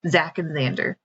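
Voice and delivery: reading a picture book aloud; gentle read-aloud storytelling; story narration. A narrator's reading. Author reads her picture book.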